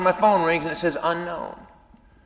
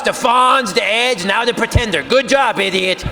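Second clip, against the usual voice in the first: sarcastic jab; 4 semitones higher, 3 dB louder than usual. Retold or imitated. Girlfriend mocking him.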